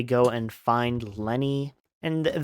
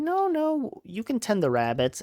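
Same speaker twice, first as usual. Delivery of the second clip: lightly acted reassurance, starting way up high; reassuring George; 10 semitones higher than usual. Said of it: "he's like".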